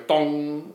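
resonant "dong", held like a string; long string dong. Shown as a demonstration. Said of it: "when the string's further away".

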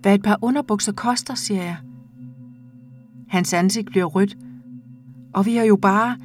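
measured, intimate reading of a short story; calm audiobook narration with lightly voiced dialogue. A narrator's reading. Reads a short story aloud.

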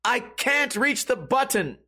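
high, strained mock cry for help; retold helpless plea. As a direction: imitate a trapped kid calling out helplessly. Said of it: "And he goes".

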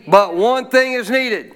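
loud, drawn-out call to the church; shouted line. Shown as a demonstration. Pastor calling the church to shout it back. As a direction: shout it out slowly for the people. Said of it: "Shout it at me".

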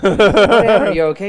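concerned caller. Retold or imitated. Caller voiced after phone crash.

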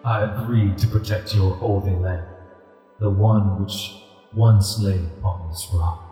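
deep rumbling voice. Acted. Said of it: "a deep rumbling voice emanates from this ghostly tiger".

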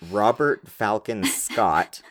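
slow, grandly drawn-out full name; grand explorer name. Shown as a demonstration. Naming the explorers to her co-host, slow and grand. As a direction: announce the name like a legend. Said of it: "they all have to be like this".

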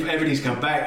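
ordinary talk

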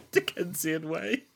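high prim Victorian nurse. Pretend. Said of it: "I don't know why I'm talking in this Dickensian way".

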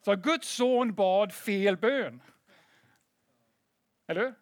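loud, high and drawn-out mock disbelief; mock outrage. Preacher mocking religious objectors to Jesus, loud incredulous mockery. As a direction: stretch it out as an exaggerated scandalised complaint.

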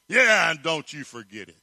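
gloating lion. Acted. Lion gloats after answer.

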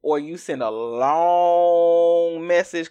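"long" stretched out loud; drawn-out LONG. Shown as a demonstration. Explaining texts to a narcissist, "long" hugely stretched. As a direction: hold the word "long" to show its size.

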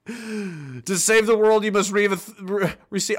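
reluctant, stumbling read; reading under duress. Pretend. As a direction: balk at the words as if forced. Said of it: "this is under duress".

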